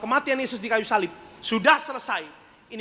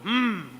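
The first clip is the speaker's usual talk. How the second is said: closed-mouth refusing hum; gumaman menolak. Retold or imitated. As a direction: hum back with lips sealed, imitating refusal. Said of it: "dia tutup mulutnya". (gumam dengan mulut terkatup)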